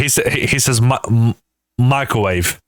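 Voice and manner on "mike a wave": "microwave" as "my-ko-wave"; imitated pronunciation. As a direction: drop the R from "microwave". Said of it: "That's how he says it".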